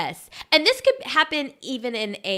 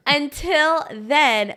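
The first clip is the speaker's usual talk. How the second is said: Southern accent; 5 semitones higher, 4 dB louder, much slower than usual. Shown as a demonstration. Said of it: "my Southern accent came out".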